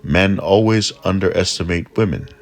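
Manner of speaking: a hint of proud goddess voice; knowing remark. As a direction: say it with a wink.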